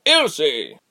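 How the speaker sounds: commanding, otherworldly call of a name. Acted. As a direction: call her name like a spirit. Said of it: "in an otherworldly voice".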